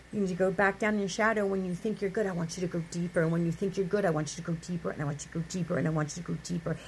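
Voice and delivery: low, rapid, insistent repetition; voice of God. Acted. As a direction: keep repeating it low and fast, like a relentless inner voice. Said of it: "you hear that voice".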